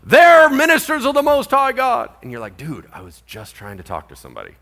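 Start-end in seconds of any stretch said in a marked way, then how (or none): 0.0-2.1 high, loud heckler's yell; imitated shouting. Woman disrupting the missionaries' conversations, imitated shouting. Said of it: "someone is shouting at the top of their lungs". 2.6-4.5 low-key, softly muttered annoyance; quietly fed up with the interruption; acted irritation. Interrupted man trying to talk to somebody, quietly irritated. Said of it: "it's pretty grating on your nerves".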